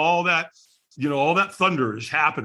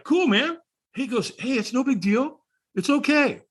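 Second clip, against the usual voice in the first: lightly imitated laid-back stranger, pitched up; easygoing reassurance; 9 semitones higher than usual. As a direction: let him off the hook in a higher voice. Retold stranger soothing a refuser.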